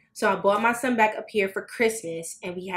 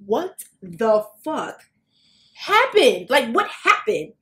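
inner disbelief; 4 dB louder, slower than usual. Retold or imitated. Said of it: "in my head".

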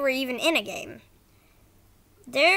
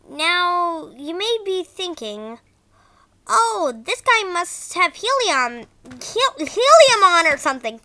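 bad acting; 2 semitones higher, 5 dB louder than usual. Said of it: "Sorry if the voice acting was bad".

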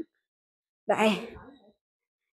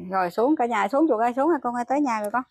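calling out; 6 dB louder than usual. Real, not acted. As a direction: call her down, raised voice. Mother calls child off bike.

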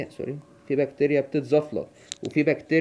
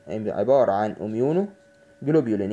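slow and deliberate; 3 semitones lower, slower than usual. Shown as a demonstration. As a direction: slowly spell out عبارة عن اميونوجلوبولين syllable by syllable. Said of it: "teacher repeats the term slowly".

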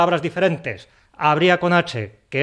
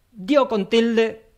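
high, slow, dismayed wail; mock pained wail; 7 semitones higher, much slower than usual. Teacher to viewers, mock dismay at an accent mistake. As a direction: moan the error as if it hurts. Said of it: "por Dios".

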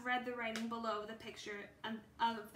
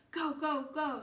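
louder, higher urgent go go go; urgent shout; 4 semitones higher, 6 dB louder than usual. Acted. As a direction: hurry her out of the cave. Fleeing the waking bear.

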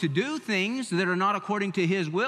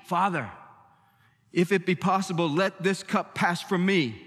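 Jesus praying. Retold or imitated. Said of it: "and he said".

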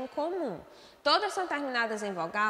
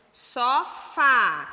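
"Sofá" loud and drawn out, weight on "fá"; stressed final syllable; 2 semitones higher, 8 dB louder than usual. Shown as a demonstration. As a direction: split "Sofá" and hit the last syllable hard. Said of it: "a última sílaba é pronunciada de maneira mais forte". ("Sofá" bem alto, com a última sílaba mais forte)

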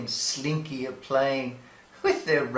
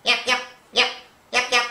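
high, loud little yaps; yapping puppy; 8 semitones higher, 4 dB louder, much faster than usual. Acted. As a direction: bark like an excited pup.

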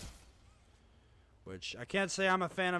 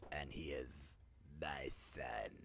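hushed whispered aside; whispering; 12 dB quieter than usual. Pretend. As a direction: whisper it like a secret. Whispered confession.

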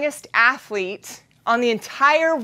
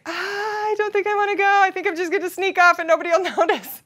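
scared reluctance; 6 semitones higher than usual. Retold or imitated. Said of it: "And I'm like".

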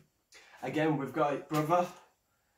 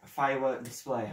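nervous stutter; stumbling stuttered words. Real, not acted. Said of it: "I'm sorry if I'm stuttering".

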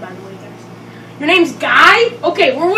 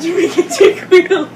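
names said through a laugh; laughing at the silly names. Shown as a demonstration. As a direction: giggle the names out. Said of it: "repeats the names, laughing".

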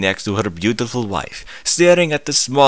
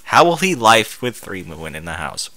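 deadpan reread mocking the grammar. Real, not acted. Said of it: "I have a feeling this was actually written by a Russian".

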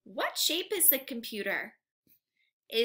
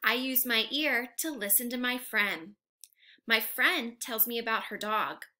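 whispered storytelling. Shown as a demonstration. Teacher whispering a story line to the class. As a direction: breathe the words to the kids.

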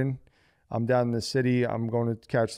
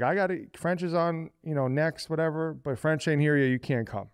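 mock DJ girl; 4 semitones higher than usual. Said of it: "She's like".

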